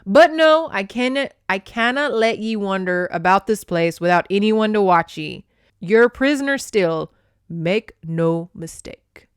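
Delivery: loud, firm Scottish captor; stern Scot. Acted. Captor tells her she's still a prisoner, stern and loud.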